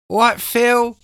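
high, loud put-on hello; imitated greeting. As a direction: call it out high, imitating a mate. Imitates friend greeting Phil at party.

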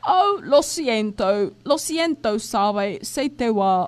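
mock apology. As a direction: pretend to be sorry for a prank. Acting out the liar's joking apology. (disculpa fingida, en broma)

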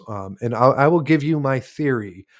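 talking around a pipe stem; slow words with a pipe in mouth. Real, not acted. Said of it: "let me relight this pipe real quick".

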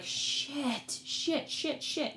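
high, dismayed little curses; acted dismay. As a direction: replay the sinking "oh no" moment up high. Acts out dawning realization in jail.

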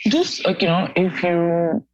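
muffled audio. Real, not acted. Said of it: "You sound muffled".

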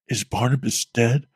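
mouthed. Acted. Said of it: "I mouthed to John".

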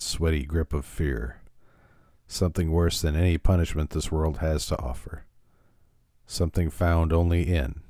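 measured dramatic reading with long pauses; opening narration. Acted. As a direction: read it like the ominous intro to an eerie TV tale. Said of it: "the opening narration".

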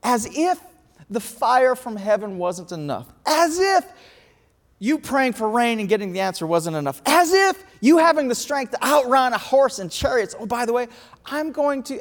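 mock incredulous God. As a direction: pile up each as if, half laughing at him. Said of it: "and God goes".

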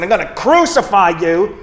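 hammed-up angry outburst; retold angry yell. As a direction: play up an angry threat, half-shouted. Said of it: "started yelling at my dog".

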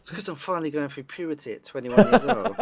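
cracking, breaking voice. Real, not acted. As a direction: voice keeps cracking as he laughs. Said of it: "His voice keeps cracking".

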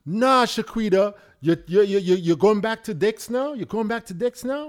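loud, disbelieving protest; outraged girlfriend. Acted.

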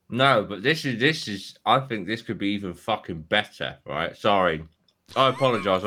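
talking through a mouthful of crumpet; eating while talking; chewing noisily. Real, not acted. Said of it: "I'm eating a crumpet".

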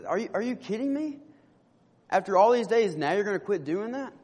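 mild, mock-indignant questioning; retold indignation. Man confronts friend who stopped paying for meals, mildly indignant. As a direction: act lightly affronted, stammering into disbelief. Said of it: "the guy gets really angry".

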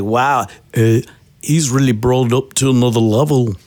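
put-on playful Liverpool accent. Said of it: "You do a good Liverpool accent".

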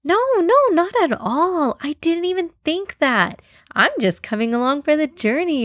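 high, small denying voice; high-pitched flustered little creature; timid ant protesting. A narrator's reading. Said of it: "asked a shy and timid ant".

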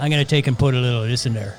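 quick, light Wisconsin cook talk; Wisconsin accent. Shown as a demonstration. Cook talking to the food, quick Wisconsin accent. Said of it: "a real, uh, Wisconsin accent".

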